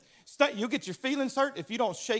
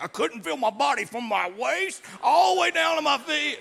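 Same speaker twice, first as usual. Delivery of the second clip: retold goalie; 4 semitones higher, 5 dB louder than usual. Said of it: "He was like".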